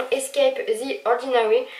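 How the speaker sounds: put-on "Escape the Ordinary" said with a heavy French accent; French-accented English. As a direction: joke about her English accent. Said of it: "avec mon superbe accent anglais". (nom anglais avec un fort accent français)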